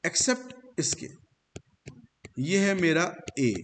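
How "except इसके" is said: except lifted high and slowed, pressed hard; slow, high emphasis on except; stressed except. Shown as a demonstration. Teacher flagging the exception to students, slow and high. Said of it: "सारे ई जितने भी हैं सब अ हैं".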